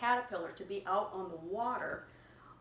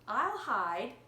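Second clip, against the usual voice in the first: playful caterpillar; 2 semitones higher, 5 dB louder, much slower than usual. Acted. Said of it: "she said".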